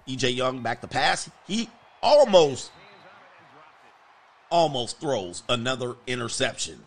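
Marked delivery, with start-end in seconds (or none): 1.5-5.0 much higher, louder, slow cry of alarm; alarmed shout. Real, not acted. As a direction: yell it slow and high in alarm. Near interception again.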